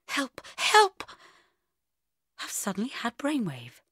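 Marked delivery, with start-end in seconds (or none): 0.1-1.0 high, loud mock-desperate cry for help; panicked cry. Hungover woman dreading work in hours, panicked. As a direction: yelp it like someone drowning in dread.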